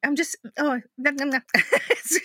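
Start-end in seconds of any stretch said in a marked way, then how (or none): 0.6-1.4 yummy nom noms. Real, not acted. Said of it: "it's making my mouth go".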